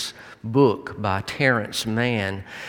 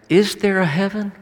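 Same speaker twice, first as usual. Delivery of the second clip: high, louder wondering question; raised voice, searching for an answer; retold earnest question; 10 semitones higher, 6 dB louder than usual. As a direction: ask it earnestly, pitched high and strong. Son earnestly asks father about heaven.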